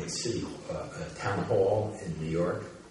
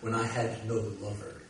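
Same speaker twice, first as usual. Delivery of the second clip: poem reading; 3 semitones higher than usual. Acted. Reads his own poem aloud.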